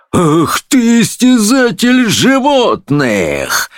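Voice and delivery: high, slow outraged cry; judge's indignant high outburst; pouncing on the culprit. A narrator's reading. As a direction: lash out, stretching every word. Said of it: "набросился судья на волшебника".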